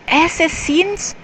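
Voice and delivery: high-pitched, rising question; puzzled high voice lifting at the end; stopped short, questioning. A narrator's reading. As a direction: pull up short and query it. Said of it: "Then he stopped".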